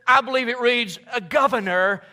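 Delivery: loud, high boastful rant; gloating brother, shouting his success; bragging Joseph. Pretend. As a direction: show off every prize. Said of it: "And I would have said".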